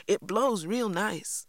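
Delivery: gently proud of his handiwork; pleased. A narrator's reading. A pleased Jeremy praising the flute he made. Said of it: "said a pleased Jeremy".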